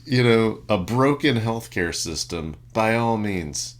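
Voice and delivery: loud, high mock sermon through laughter; soapbox preacher. Soapbox rant at chain-store shoppers, loud mock preaching. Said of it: "Drag the, the soapbox squeaks over".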